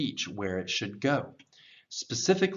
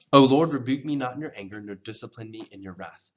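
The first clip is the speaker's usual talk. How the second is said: natural rhythmic reading; 5 dB louder, faster than usual. Shown as a demonstration. Teacher reads for learners to repeat, natural rhythm. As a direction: read it through briskly with natural intonation. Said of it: "I'll read through the whole thing with a natural rhythm".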